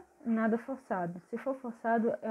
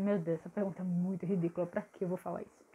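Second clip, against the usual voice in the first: quick, dismissive muttered thought; self-critical inner voice; 4 semitones lower, 4 dB quieter, faster than usual. Retold or imitated. Shy student mocking her own question in her head, quick and self-dismissive. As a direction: rush it like a nervous thought you squash. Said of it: "eu ia dizer".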